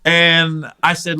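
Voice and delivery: ordinary delivery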